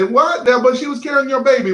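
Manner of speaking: high, fast, disbelieving "What?"; incredulous objection. Retold or imitated. Pastor voicing a doubting listener, incredulous and fast. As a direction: push back as if you can't believe it.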